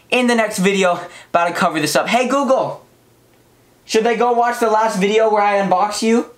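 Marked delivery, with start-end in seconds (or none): 2.1-6.3 clear, raised voice for a smart speaker; repeating to voice assistant. Real, not acted.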